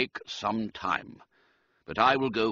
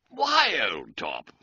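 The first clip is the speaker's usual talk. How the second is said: excited; slower than usual. Acted. Reggie's excited brainwave exclamation.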